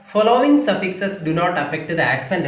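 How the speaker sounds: each word spaced out very slowly for writing down; slow dictation. Shown as a demonstration. Teacher dictating the stress rule to students, slow and spaced. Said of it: "എന്ന് എഴുതിയിട്ട്".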